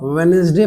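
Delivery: वेडनेसडे said 'wenz-day', D silent; correct pronunciation. Shown as a demonstration. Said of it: "इसको आप वेडनेसडे पढ़ेंगे". (वेडनेसडे को 'वेन्ज़डे' बोलें)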